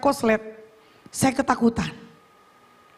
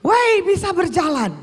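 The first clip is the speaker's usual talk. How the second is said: higher-pitched retold cry of amazement; excited yell; 4 semitones higher than usual. Telling the congregation how she yelled on walking, excited yell. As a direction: re-enact yelling out in astonishment. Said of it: "saya teriak".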